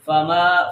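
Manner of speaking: فما with short fa and long maa; short first vowel. Shown as a demonstration. Teacher models the rule, فما with brief fa. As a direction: stretch only the end of فما. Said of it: "فا کو لمبا نہیں کر رہے".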